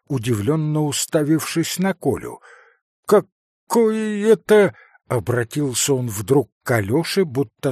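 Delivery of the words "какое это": high, loud, slow demand; indignant. A narrator's reading. Doctor asking Alyosha, indignant. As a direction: demand an explanation.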